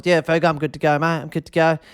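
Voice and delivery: lightly voiced Broden, barely changed; a hint of a laid-back mate. Host imitating Broden confirming the booking, lightly voiced. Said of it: "I'll do the Broden voice".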